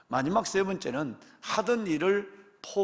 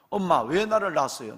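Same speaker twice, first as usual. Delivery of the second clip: put-on complaining child; 5 dB louder than usual. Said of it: "부모와 따지는 거예요".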